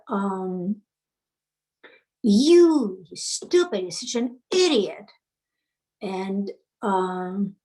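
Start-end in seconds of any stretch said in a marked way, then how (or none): 2.2-5.1 imitating husband yelling. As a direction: throw the insult like the angry husband. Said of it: "He's just yelling at you".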